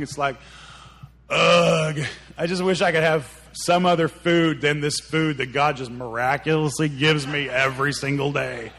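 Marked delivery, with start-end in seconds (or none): 1.3-8.7 hammed-up whiny complaint; mock ungrateful moaning; grumbling. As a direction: open on a big disgusted groan, then gripe. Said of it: "that these people are grumbling".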